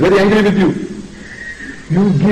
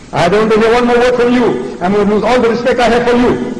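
higher-pitched indignant protest; offended warning; 4 semitones higher than usual. Acted. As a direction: act out someone taking firm offence. Acts out an offended listener's warning.

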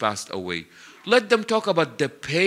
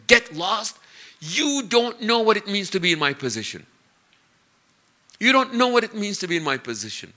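raised pitch, mildly angry rebuff; retold distraught outburst; 5 semitones higher than usual. Preacher voices grieving mother rebuffing a passer-by, mildly distraught outburst. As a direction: push them away with a higher, indignant voice. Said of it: "she is wailing and screaming".

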